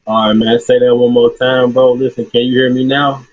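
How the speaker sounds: muffled, like talking through a tube; muffled phone line. Real, not acted. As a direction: voice through a water hose. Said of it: "You just sound, like, muffled".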